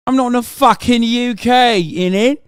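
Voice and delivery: mock British retort ending on innit; hammed-up British slang to mock chat. Streamer mocking chat with a put-on British accent.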